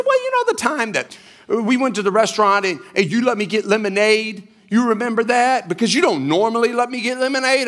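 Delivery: high-pitched imitation of a child; young daughter. Daughter reminds dad about the restaurant, imitated child voice. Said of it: "And she says".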